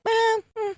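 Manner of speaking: high, doubtful little hum; noncommittal "eh, hmm". Acted. Woman recalls her reaction to the tie, noncommittal hum. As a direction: give a high, unconvinced "eh". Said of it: "I was like".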